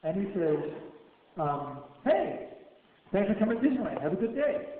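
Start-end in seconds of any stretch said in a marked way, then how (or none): 2.1-4.7 high, sing-song customer-service voice; fake-cheery greeter. Guard at the Disneyland gate chirping a welcome, mock cheery. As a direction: mimic a chirpy theme-park greeter.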